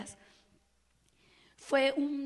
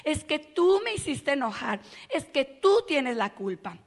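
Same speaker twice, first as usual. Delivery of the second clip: blaming; 2 semitones higher, 8 dB louder than usual. Retold or imitated.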